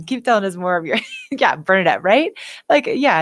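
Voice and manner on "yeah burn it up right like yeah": words through giggles; real laughter spilling into words; laughing while talking. Real, not acted. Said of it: "I'm laughing so hard in here".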